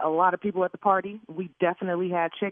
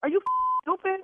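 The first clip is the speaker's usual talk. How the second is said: angry; 5 semitones higher than usual. Real, not acted. Yelling at the caterer.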